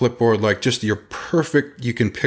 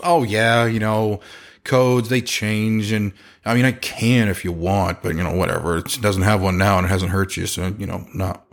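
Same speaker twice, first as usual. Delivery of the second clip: cavalier. Retold or imitated. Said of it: "very cavalier, very not servicing at all".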